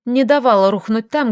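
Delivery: usual speaking voice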